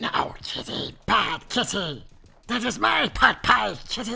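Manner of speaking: two cartoon voices blended, high and drawn-out. Trying a voice for scolding a kitty, doing a Smeagol Cartman voice. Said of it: "I could try a Smeagol Cartman".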